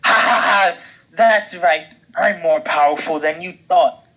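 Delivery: high, loud gloating cackle; cackling villain. Acted. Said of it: "cackled ceiling Danny".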